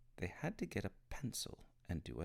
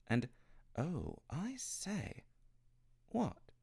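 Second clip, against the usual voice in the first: excited; 11 semitones higher, slower than usual. Acted.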